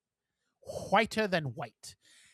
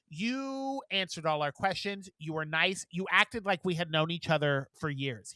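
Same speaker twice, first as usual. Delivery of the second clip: lightly put-on French accent; French customer's accent, level and measured. French customer thanking the friendly shop worker, French accent. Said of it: "This is my French accent".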